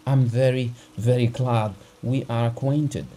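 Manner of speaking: a terrified husband begging for help; frightened urgency. Acted. Husband begs the doctor to come, frightened and pleading. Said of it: "spoke quickly in a shaking voice".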